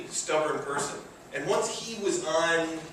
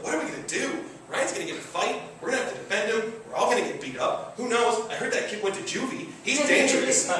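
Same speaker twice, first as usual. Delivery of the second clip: worried friends; 6 semitones higher, faster than usual. Retold or imitated. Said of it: "everyone's like".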